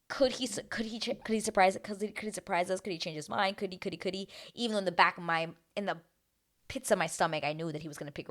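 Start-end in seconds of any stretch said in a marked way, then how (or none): 0.1-4.3 stammering, restarting over and over; soft, hurried string of questions; anxious babble. Retold or imitated. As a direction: trip over the repeats in suspense. Acts own racing doubts.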